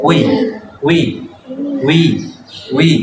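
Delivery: উই said as one gliding sound from উ to ই; ও plus ই blended. Shown as a demonstration. Teacher drilling the class on a blended উই. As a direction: slide উই together in one breath. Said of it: "তাহলে কি দাঁড়াচ্ছে?".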